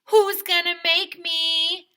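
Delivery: high, loud and slow taunt; defiant dare. Shown as a demonstration. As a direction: challenge them like a movie tough guy. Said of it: "you should always say".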